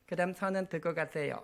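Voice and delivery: 살짝 높고 부드럽게 흉내 낸 아기 말투; 어린 딸처럼 조르듯 가볍게; 아기 목소리. Shown as a demonstration. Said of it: "애기 목소리를 했겠죠". (작게 흉내 낸 아기 목소리)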